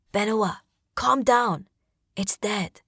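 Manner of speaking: slow, steady soothing words; calm reassurance. Acted. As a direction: settle her down gently. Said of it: "Ruku says, calmly".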